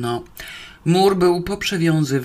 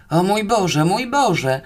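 higher, louder lament; distressed moan; 4 semitones higher, 4 dB louder, slower than usual. Acted. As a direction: wail in open dismay. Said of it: "zajęczał w nieskrywanej rozterce". (jękliwy lament w rozterce)

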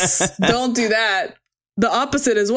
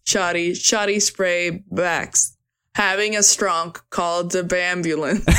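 goofy meme voice; 2 semitones lower, slower than usual. Pretend. Silly meme nonsense.

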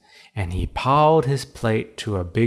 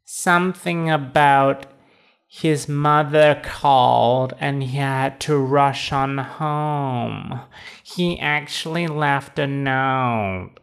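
toad receptionist voice; 3 semitones higher than usual. Acted. Toad explains.

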